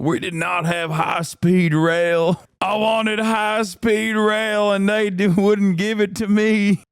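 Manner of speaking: put-on a parody of an American defector telling his story in a thick American accent. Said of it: "a thick American accent".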